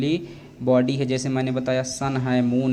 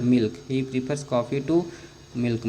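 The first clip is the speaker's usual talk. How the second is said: slow; much slower than usual. Shown as a demonstration. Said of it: "to क्या है?".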